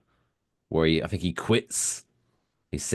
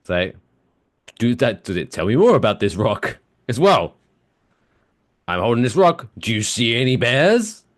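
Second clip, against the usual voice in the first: Lisa; 3 semitones higher, 5 dB louder than usual. Retold or imitated. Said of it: "Lisa says to Homer".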